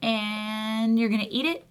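measured self-coaching pep talk; lightly acted stern talk to yourself; internal monologue. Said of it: "what goes on inside my head".

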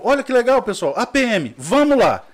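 high, loud mock-excited call to a crowd; retold rallying call. Man retelling how he greeted the police at the corner, mock-excited call. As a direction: call everyone over, re-enacting the bravado.

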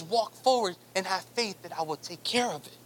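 low, soft and calm, lightly voiced; God's voice. God telling his people to walk forward, low and soft. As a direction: speak as God, quietly reassuring.

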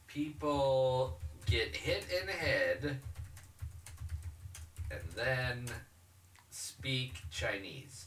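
slow, halting search-query mumble with long gaps; trailing off softly, word by word; typing aloud. Real, not acted. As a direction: speak each chunk as you type it.

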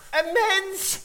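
high, loud squeaky shriek of fright; a tiny creature jumping out of its skin; startled mouse. Acted. Mouse startled by a human girl, squeaky high yelp.

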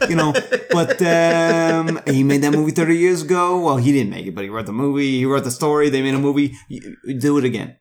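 brash fast-talking producer; studio executive voice. Retold or imitated. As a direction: sell the deal like a mogul. Plays studio executive pitching.

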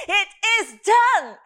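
IS and DONE each hit firmly; emphatic. Shown as a demonstration. Preacher showing how emphatic the word is, emphatic. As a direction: declare DONE with emphatic finality. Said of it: "It's very emphatic".

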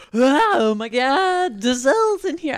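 attempted Boston accent. Barista spotting Gisele in the coffee shop, a failed Boston accent. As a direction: gasp it like a Bostonian spotting a celebrity, Boston accent half-done. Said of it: "I can't do a Boston accent".

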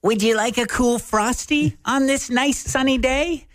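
high, sing-song AI attendant; chirpy upselling machine; robot drive-through voice. Pretend.

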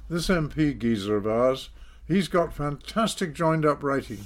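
showing off the letter, a mild mock yell; mock shout. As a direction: call it out like a proud announcement. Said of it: "shouting at the top of his voice".

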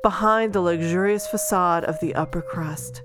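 steady back-cover blurb read. Acted. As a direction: read it like a book jacket. Reads the book blurb.

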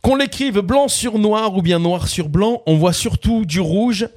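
measured spoken lyrics, each line set apart; lyric recitation. Acted. Quiz host repeating lyrics on request, measured recitation. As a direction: recite the words like verse, without singing.

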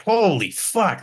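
high, drawn-out stunned swearing; retold shock. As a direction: react in hammed-up shock, stretching it out. Retold shock at husband's death.

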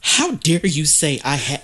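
light mock haughty voice; a hint of Geneva's indignation; imitating Geneva. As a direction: play the offended diva, laughing. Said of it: "that's exactly how she be talking".

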